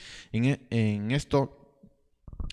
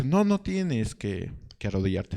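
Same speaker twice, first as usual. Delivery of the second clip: Absalón reassuring. Retold or imitated. Absalón coaxing a subject not to kneel, slowly. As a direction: draw it out kindly, lifting it up. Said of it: "Absalón dice".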